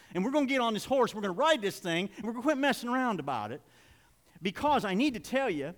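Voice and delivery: energetic, emphatic pulpit delivery; rally the congregation with punched words; preaching. Real, not acted. Preacher rallying listeners to follow Jesus, preaching with drive.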